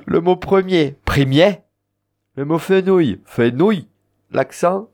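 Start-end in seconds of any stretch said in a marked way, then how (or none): 1.1-1.6 "premier" with a rising, strong final "mier"; stress on last syllable. Shown as a demonstration. Teacher giving the Occitan word for premier, stress on its last syllable "mier". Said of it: "on tape sur la dernière syllabe". 3.2-3.9 "fenouil" with a strong final "nouil"; stress on last syllable. Shown as a demonstration. Teacher giving the Occitan word for fenouil, stress on the final "nouil". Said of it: "on tape sur la dernière syllabe".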